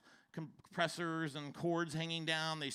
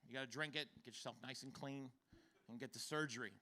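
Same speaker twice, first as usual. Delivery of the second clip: quoted doctor; 4 semitones lower, 11 dB quieter, faster than usual. Retold or imitated. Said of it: "He's like".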